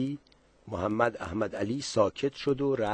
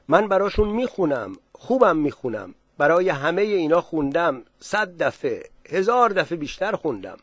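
eager boasting; 5 semitones higher, 4 dB louder than usual. Acted. Zahed bragging about singing.

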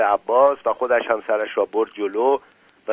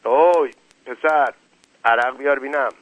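mild shout; 3 semitones higher than usual. Acted. Ali Qomi orders Qasem to bring arak, mild shout. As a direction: call out to summon the boy, without full force. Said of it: "رو به قاسم داد زد".

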